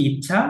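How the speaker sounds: ইচ্ছা with a quick, short first vowel. Shown as a demonstration. Teacher contrasting short and long vowels, ইচ্ছা with short i. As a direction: keep the ই of ইচ্ছা brief. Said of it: "এটা হচ্ছে হ্রস্ব".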